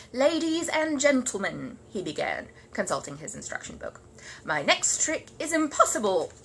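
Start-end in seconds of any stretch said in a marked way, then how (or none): 0.1-1.8 slow, grand announcement; showman bear. Acted. Paddington addressing his party audience, grandly. 4.4-6.3 slow, grand announcement; showman bear. Acted. Paddington addressing his party audience, grandly.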